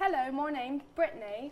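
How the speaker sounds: plain, put-on British accent. Asked to do British while trying out accents: British accent. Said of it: "Okay, do British".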